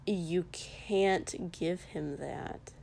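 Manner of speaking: slow, low, quiet deadpan; weary deadpan, slowly. Acted. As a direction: say it dry and flat-faced, taking your time. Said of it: "Kotsky deadpanned".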